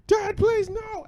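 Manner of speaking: very high-pitched pleading; mock a small child's frantic plea; hysterical child, imitated. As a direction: squeal it like a desperate little kid. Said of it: "he was hysterical back to it".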